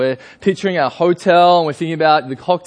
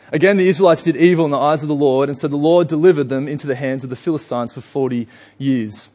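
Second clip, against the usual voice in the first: measured scripture reading; 2 semitones lower than usual. Acted. Pastor reading Judges aloud to his congregation. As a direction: read the verse out with gravity.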